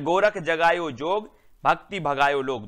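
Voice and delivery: recited verse. Shown as a demonstration. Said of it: "next है".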